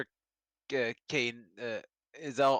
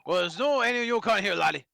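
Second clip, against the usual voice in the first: gruff voice with a hidden Scottish lilt, higher; rough governor with accent; 4 semitones higher than usual. Acted. Governor brushing off the Japanese lawyer, rough accented voice. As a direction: sneer like a hostile old warden. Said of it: "hide the accent underneath the roughness".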